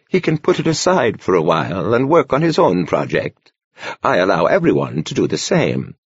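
put-on a gentle old monk speaking kindly; gentle old man voice. A narrator's reading. Narrator voices old Brother Horner.

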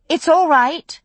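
firm, loud call to the tavern. A narrator's reading. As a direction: settle the crowd with authority. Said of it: "more firmly, to the room at large".

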